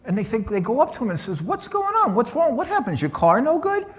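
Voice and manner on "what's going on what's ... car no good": high, anxious rising questions; worried concern. Retold or imitated. Two guys anxiously asking the crying Lamborghini driver what happened, in high worried voices. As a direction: fret over him in a much higher voice.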